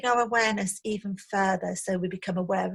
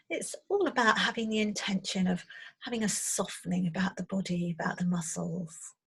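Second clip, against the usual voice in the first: softer meditation voice with long pauses; guided meditation; 4 dB quieter than usual. Acted. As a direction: gently guide them into settling, leaving space. Leads into the meditation.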